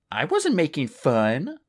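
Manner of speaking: slow, mild protest. Acted. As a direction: insist you meant no harm. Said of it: "Clay had protested".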